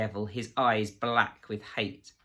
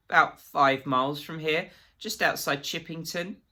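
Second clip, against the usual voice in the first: higher, louder, anxious answer; snivelling Absalom; 7 semitones higher, 5 dB louder than usual. A narrator's reading. Absalom telling Reeves where, anxious and higher. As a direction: blurt out the place, nervous.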